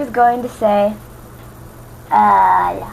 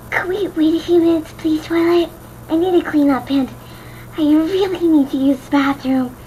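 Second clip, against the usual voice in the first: higher, sillier Fluttershy plea; funnier Fluttershy voice; 5 semitones higher than usual. Acted. Fluttershy begs Twilight for the bathroom, hammed up higher. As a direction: ham it up pleading to Twilight. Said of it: "make this sound more funny".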